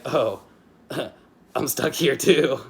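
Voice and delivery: cheerful line laughed through, a bit slow; carefree laugh. Retold or imitated. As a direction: shrug it off with an easy laugh, like Luffy. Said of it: "much like Garp and Luffy would".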